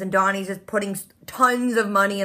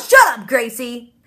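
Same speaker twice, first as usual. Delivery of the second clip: louder, slowed exasperated shout; yelling at Gracie; 6 dB louder, slower than usual. Real, not acted. Vlogger scolding the character Gracie, a loud slow exasperated yell. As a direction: tell her off through the screen.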